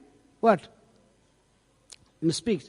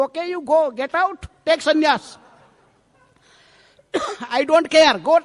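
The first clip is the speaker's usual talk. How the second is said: higher and louder, dismissing her in a huff; angry husband; 6 semitones higher, 6 dB louder than usual. Acted. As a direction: throw the words at her in a temper. Husband shouts at wife in quarrel.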